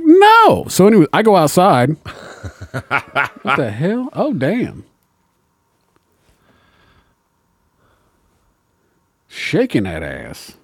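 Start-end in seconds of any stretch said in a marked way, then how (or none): 0.0-0.6 high, loud flat refusal; loud mock refusal; defiant no. 3.4-10.5 hushed awe. Real, not acted. Reacting to dancer, hushed awe.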